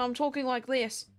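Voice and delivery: lightly put-on Australian accent. Shown as a demonstration. Streamer showing chat how they descend into Australian, light Australian accent. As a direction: slip playfully into an Australian accent. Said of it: "like an Australian".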